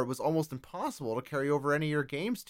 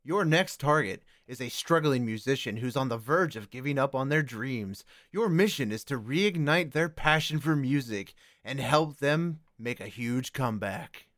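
video game ad. Acted. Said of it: "let's have a word from our sponsors".

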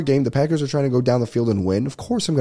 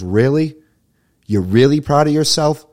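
mocking stranger; 5 semitones higher, 5 dB louder than usual. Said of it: "Turns around and he goes".

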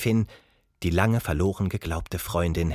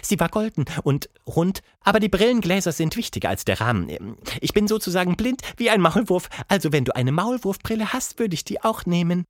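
much higher grumpy ape lady; a cranky ape, higher pitched; 8 semitones higher, faster than usual. Acted. Plappi voice.

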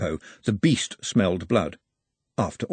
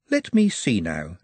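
slow musing aside; mild thoughtful musing; 3 semitones lower, slower than usual. Acted. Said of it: "Nut mused".

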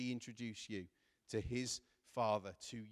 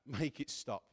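loud, urgent plea to a father; crying out in desperation; 5 dB louder than usual. Retold or imitated. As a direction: act out a desperate call for help, voice raised. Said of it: "He's shouting out".

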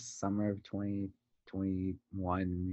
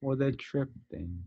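slow, lightly imitated British accent; teasing echo with a hint of British; mock British accent; 3 semitones higher, slower than usual. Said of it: "I heard a British accent".

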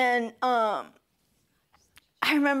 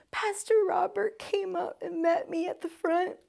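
tearful, breathless whisper; choked whisper; 8 semitones higher than usual. Real, not acted. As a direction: voice giving out from emotion. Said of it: "I'm getting emotional".

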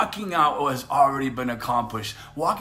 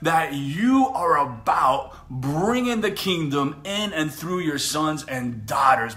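earnest prayer. Real, not acted. Preacher praying over viewers watching live, earnest prayer. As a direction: pray over the listeners with conviction.

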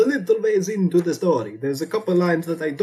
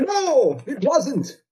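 high, worked-up denial; indignant outburst; 4 semitones higher than usual. Acted. Dracula exposes the story as a forgery to Felix, high indignant outburst. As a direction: insist it's all a fake, outraged.

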